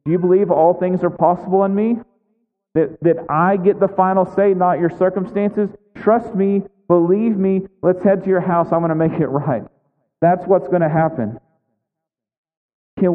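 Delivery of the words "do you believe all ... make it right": voicing Jesus. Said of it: "Jesus is looking at Jairus and saying".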